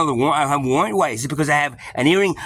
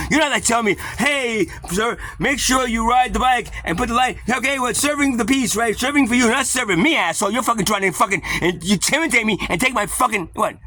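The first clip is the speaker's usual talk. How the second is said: high-pitched, agitated tirade; upset rant; 6 semitones higher than usual. Retold or imitated. Berating police who should be serving him, upset. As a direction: work yourself up against the police. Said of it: "you get a little upset".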